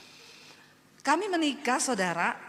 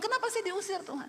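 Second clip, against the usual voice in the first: retold angry prayer; 8 semitones higher than usual. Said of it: "saya marah sama Tuhan".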